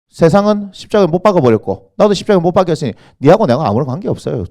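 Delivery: usual speaking voice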